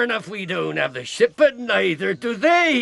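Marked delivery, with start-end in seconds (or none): 1.4-2.8 slow, emphatic gloat with a shout; triumphant. Acted. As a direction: crow it over the mates. Silver gloats to crew.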